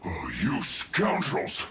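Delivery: low, slow sulky outburst; defeated grumble. Acted. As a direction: lose with wounded pride. Defeated enemy complaining.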